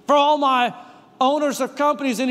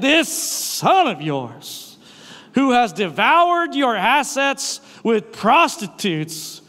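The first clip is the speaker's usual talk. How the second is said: slow, pointed, accusing delivery; bitter accusation; slower than usual. Retold or imitated. Pastor voices the older son accusing his father, slow and bitter. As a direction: lean hard on this son of yours. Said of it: "he went right to".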